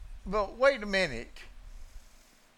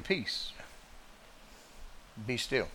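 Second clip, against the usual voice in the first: soft, gentle low command; a quiet, mild rebuke; mild calm command; 5 semitones lower, 9 dB quieter than usual. Retold or imitated. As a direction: say it softly, as other preachers do. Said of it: "to say he just stepped up and said".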